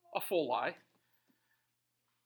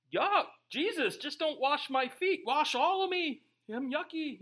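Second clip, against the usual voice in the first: higher, pleading whine, mock disgust at oneself; mock disgusted plea; 8 semitones higher than usual. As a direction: play up the yuck, begging Jesus to wash all of you. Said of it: "and you're like".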